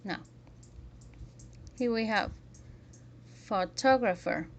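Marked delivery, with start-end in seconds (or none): 3.4-4.5 "photographer" with a loud second syllable; "photographer", stressed firmly on the second syllable; one accented syllable. Shown as a demonstration. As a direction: hit "tog" in "photographer". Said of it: "very loudly and the other syllables very quietly".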